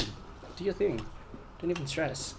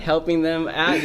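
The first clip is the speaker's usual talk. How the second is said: put-on American accent, a little raised; 4 semitones higher, 4 dB louder than usual. Bluffing a fan about his job in a put-on American accent. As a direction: carry on the casual fake American accent. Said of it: "an American accent".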